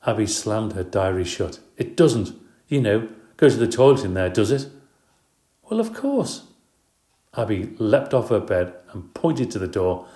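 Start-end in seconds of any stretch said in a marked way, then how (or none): 1.8-4.7 disgusted. A narrator's reading. Disgusted stepsister asks about toilet. 5.7-6.5 matter-of-fact. A narrator's reading. Matter-of-fact answer, odd voice.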